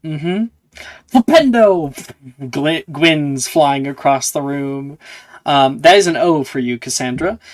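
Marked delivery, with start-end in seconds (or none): 1.1-2.1 spell cast. Acted. Casting spell at target.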